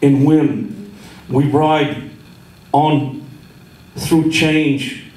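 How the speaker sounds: measured poem recital, lingering pauses; cowboy poetry. Acted. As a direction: read it like a slow campfire poem.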